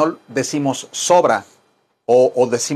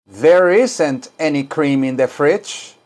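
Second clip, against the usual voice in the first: slow, careful English; slow teaching read; slow model sentence; slower than usual. Shown as a demonstration. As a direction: say it slowly for students to repeat. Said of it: "Ahora digan".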